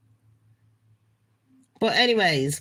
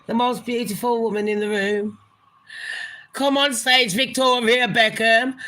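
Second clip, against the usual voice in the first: imitating a singer; 2 semitones higher than usual. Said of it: "that's what he says".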